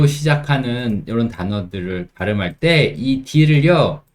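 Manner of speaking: ordinary talk, nothing marked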